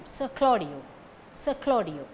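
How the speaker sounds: "Sir" cut to an unstressed "suh"; weak "Sir". Shown as a demonstration. Teacher showing Sir before a consonant, weak "Sir". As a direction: glide over "Sir" onto "Claudio". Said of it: "weak form".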